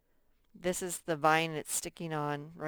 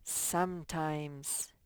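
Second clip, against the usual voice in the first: slow prompt word; 2 semitones lower, 4 dB quieter, much slower than usual. Shown as a demonstration. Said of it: "what does this say".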